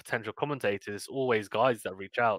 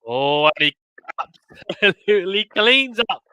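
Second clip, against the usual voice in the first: much higher and louder ace call; thrilled sports commentary; excited call; 9 semitones higher, 8 dB louder than usual. Real, not acted. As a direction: erupt as the ace lands. Live tennis play-by-play.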